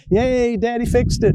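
put-on high-pitched little girl's cheer; child's happy, high "yay"; young daughter cheering. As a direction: imitate a delighted small child, pitched well up. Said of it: "when she was young".

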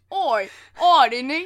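hammed-up British "oi"; mock British accent. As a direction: put on a random cheeky British voice. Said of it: "will make a British voice with no context".

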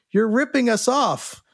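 retelling a pushy bar guy's complaint, lightly voiced; mild mock accusation; accusing drunk patron.

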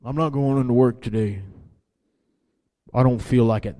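a hint of a pouting quitter; sulky reluctance. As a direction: play the reluctant worker. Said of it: "That's what he was doing".

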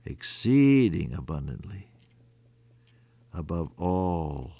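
hushed whisper. Acted. Sermon closes in hush.

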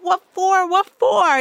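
high, baffled repeat; confused. Retold or imitated. She questions the boyfriend's order, high confused repeat. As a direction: ask it twice, lost and alarmed. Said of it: "And I was like".

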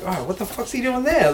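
high, hushed amazement; amazed wonder. Retold or imitated. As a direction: marvel at the guitar solo. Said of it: "I found myself looking at the end of the bar like".

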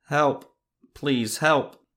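desperate loud cry from afar; shouting for help. A narrator's reading. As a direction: scream for help in the dark. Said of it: "heard someone deeper in the forest shout".

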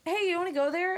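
parent's offer. Retold or imitated. Parents voiced in a story.

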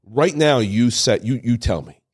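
slow, halting, holding back emotion; real choked up. Real, not acted. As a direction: fight through the lump in your throat, slowly. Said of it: "I'm gonna get choked up".

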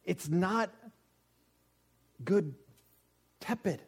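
loud, high-pitched preaching; loud preacher hammering the point; emphatic insistence. Real, not acted. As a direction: drive the contrast home at full volume.

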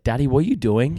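put-on questioning toddler. Dad mimicking his daughter questioning everything, high child voice. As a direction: pipe up like a curious little kid.

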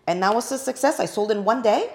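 normal talking voice

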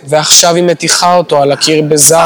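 deadpan reporter narrating a horror; calm TV narrator. Retold or imitated. Mocking the researcher who reports abuse calmly, flat and calm. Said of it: "מדברת בקול כזה רגוע".

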